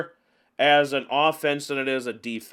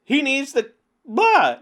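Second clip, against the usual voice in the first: frantic complaining; 9 semitones higher, 5 dB louder than usual. Retold or imitated. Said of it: "because I'm like".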